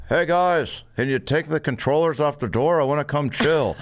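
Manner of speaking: roommate calling through a door; Blake. Retold or imitated. Locked-out roommate asking to join, calling out. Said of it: "then we just hear".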